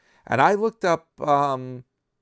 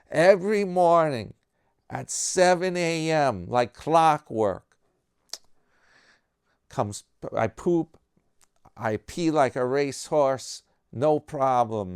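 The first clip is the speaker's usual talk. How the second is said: put-on bragging old guy; 6 semitones higher, 6 dB louder than usual. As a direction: savour every word of the boast. Third guy brags again.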